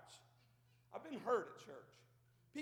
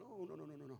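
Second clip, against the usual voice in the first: much softer, lower demurring no's; mock polite refusal; 6 semitones lower, 7 dB quieter than usual. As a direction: wave off the gift shyly.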